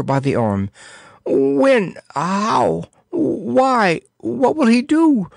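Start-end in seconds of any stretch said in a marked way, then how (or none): 1.3-5.3 put-on high, frantic young voice. A narrator's reading. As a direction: fire the questions in a panic. Prince's frantic questions.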